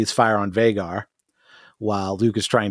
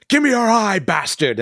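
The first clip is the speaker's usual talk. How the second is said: mock yell; 9 semitones higher than usual. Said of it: "he's like".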